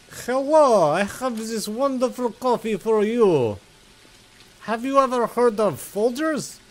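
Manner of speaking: high, bright-pitched pushy seller; salesman voice. Pretend. Playing a coffee vendor offering Folgers, high salesy voice.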